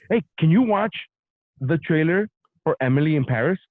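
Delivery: mock-mad, pushy question. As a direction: imitate an annoyed partner demanding attention. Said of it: "like, she's mad".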